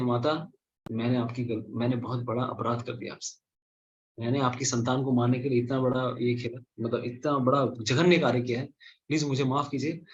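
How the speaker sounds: remorseful apology. Acted. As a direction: beg forgiveness, head bowed. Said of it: "Devraj Indra बोलते हैं".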